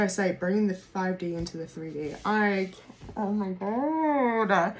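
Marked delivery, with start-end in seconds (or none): none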